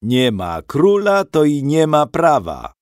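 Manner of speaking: a hint of laughter in a bold sneer; mocking laugh. A narrator's reading. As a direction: taunt the captives with contempt. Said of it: "zaśmiał się Pludra".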